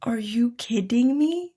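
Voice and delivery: an unvoiced, slowed, disbelieving whisper; stunned whisper. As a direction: breathe it out slowly, too stunned to voice it. Stunned reply to free room.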